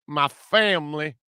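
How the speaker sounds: a light mock Southern accent. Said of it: "Southern accent".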